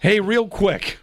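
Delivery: lightly voiced casual hello through a laugh; laughing mock text. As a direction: read out the text while laughing. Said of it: "How would I text that message".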